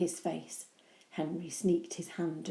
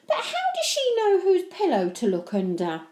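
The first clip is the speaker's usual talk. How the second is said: curious; 12 semitones higher, 8 dB louder than usual. Acted. Henry presses.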